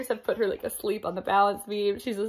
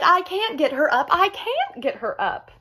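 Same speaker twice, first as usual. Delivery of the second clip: despairing mother; 6 semitones higher than usual. Acted.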